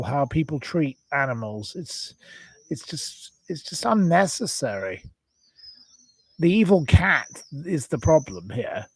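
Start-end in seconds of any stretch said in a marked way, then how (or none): 1.8-5.0 fighting back tears; choked up. Real, not acted. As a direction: voice cracks to a breathless near-whisper. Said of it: "please don't cry".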